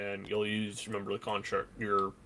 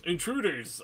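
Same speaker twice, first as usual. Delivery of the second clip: repeated demon roar, less forceful; deep demonic voice; 6 semitones higher than usual. Acted. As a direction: growl it as the demon once more. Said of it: "The demon in very, uh, deep demonic voice".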